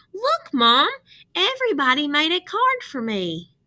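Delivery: put-on boy delighted showing off his cards; excited kid. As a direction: call to mom like a thrilled child. Russell excitedly calls his mom.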